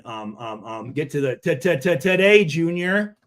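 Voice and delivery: stuttering and repeating words; stumbling stutter on the words. Real, not acted. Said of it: "Jesus, here I go again".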